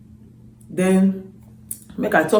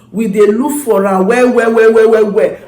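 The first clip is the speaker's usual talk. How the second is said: emphatic; 2 semitones higher, 6 dB louder than usual. Real, not acted. Emphatic repetition.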